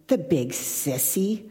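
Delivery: put-on a slow, sulky little boy's voice; shaky voice. A narrator's reading. Small boy left alone in the storm, slow sulky mutter. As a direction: drag it out like a grumbling small child. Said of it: "a shaky voice saying".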